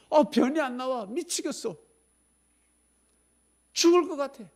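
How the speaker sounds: very high whining complaint; mock desperate patient. Patient to the doctor, comic desperate whining. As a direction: plead in comic distress.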